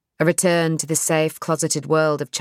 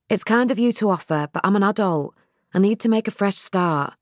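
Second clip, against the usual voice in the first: Nell's voice; 4 semitones higher than usual. Acted. Narrator voicing Nell.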